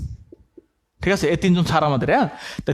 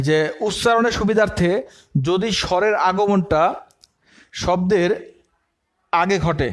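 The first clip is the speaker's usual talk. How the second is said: slow dictation; slower than usual. Shown as a demonstration. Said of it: "হ্যাঁ, লেখো".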